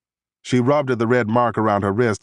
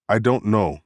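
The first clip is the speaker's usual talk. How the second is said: put-on a light Saudi accent, denial kept short; lightly voiced Saudi woman, thick accent on every word. Suspect denies knowing to the interrogator, light Saudi accent. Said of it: "she said in a thick Saudi accent".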